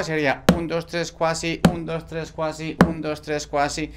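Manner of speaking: rhythmic counting demo; counting a quintuplet aloud. Shown as a demonstration. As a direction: count un, dos, tres, cuasi in a steady pulse. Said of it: "Si lo quieren hacer con números".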